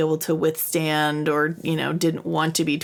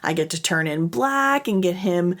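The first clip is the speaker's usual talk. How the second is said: gleeful. Retold or imitated. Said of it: "He is so excited".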